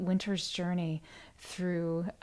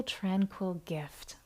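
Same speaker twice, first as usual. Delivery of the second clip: whisper; 6 dB quieter, much slower than usual. Real, not acted. Host thanking donors on livestream.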